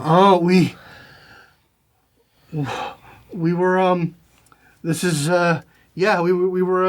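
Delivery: a lightly voiced flustered pirate. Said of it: "little flustered".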